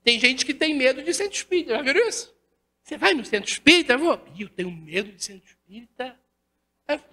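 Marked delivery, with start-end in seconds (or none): 4.3-6.2 softer, fast timid little voice; mock timid voice. Lecturer imitating a visitor afraid of the spiritist center, soft mock-timid voice. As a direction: play the scared visitor, hushed and quick.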